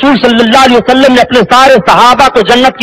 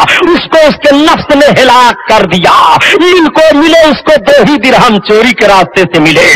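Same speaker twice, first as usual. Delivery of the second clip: fiery preaching shout. Real, not acted. Preacher condemns the thief's greed.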